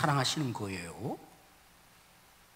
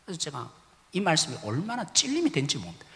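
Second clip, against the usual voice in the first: usual speaking voice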